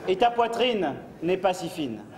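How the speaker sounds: slow, grand poetry recital; hammy stage actor. Acted. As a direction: declaim it like a ham actor. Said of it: "Poème".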